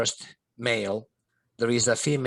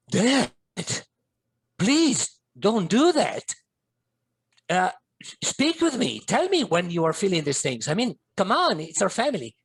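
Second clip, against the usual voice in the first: pleading son; 6 semitones higher, 3 dB louder than usual. Retold or imitated. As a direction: beg your father to stay. Begging suicidal father.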